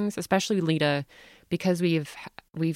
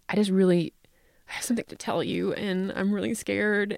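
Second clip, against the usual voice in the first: scared daughter; 4 semitones higher than usual. Retold or imitated. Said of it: "And she says".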